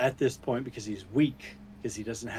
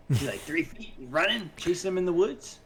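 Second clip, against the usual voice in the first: raised-pitch disbelief at the absurdity; incredulous; 5 semitones higher than usual. Real, not acted. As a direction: question it as if it can't be true. Disbelief at tiny pursuer.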